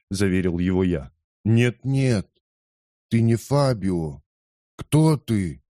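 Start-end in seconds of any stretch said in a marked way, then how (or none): 1.4-5.6 slow, lightly voiced old man; old man denying. A narrator's reading. Old man to the narrator: slow, puzzled denial. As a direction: deny it slowly, puzzled.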